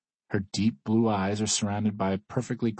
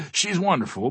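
high-pitched laughing agreement; amused, much higher voice; 8 semitones higher, slower than usual. A narrator's reading. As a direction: laugh heartily through the words. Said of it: "When Wayne laughs".

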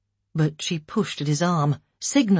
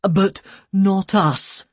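slow, louder annoyed retort; 4 semitones higher, 5 dB louder, much slower than usual. A narrator's reading. Husband answering the care worker, annoyed. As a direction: push back, annoyed.

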